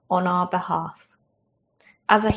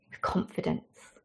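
hushed; 3 semitones lower, 13 dB quieter than usual. Acted. Preacher drops to emphatic hush.

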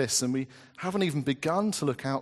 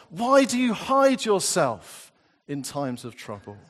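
impassioned scripture reading; 4 dB louder than usual. Acted. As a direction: cry out the psalm, rising then sinking to a hush. Reads lament psalms with feeling.

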